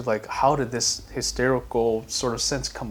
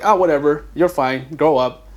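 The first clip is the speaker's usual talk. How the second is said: dismissive parent; 2 semitones higher, 5 dB louder than usual. Retold or imitated. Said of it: "the parent's like".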